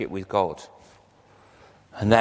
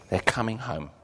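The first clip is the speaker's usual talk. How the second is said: softer repeat, stress on coming; soft echo; 6 dB quieter than usual. Shown as a demonstration. Preacher repeating the promise to congregation, softer echo. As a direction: echo it back quietly, leaning on coming.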